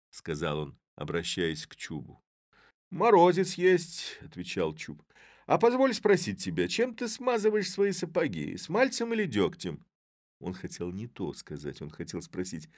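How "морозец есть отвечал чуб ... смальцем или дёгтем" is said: high, loud awkward small talk; flustered Chub. A narrator's reading. Chub to the mayor, high and flustered. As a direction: cover embarrassment with a silly question.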